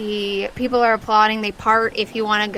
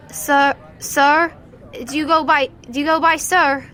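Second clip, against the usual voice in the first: put-on lightly raised timid kid's voice; a hesitant little street kid asking politely; shy child; 5 semitones higher, 3 dB louder than usual. Street kid tugging at the winner, shy child voice. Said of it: "clearly child".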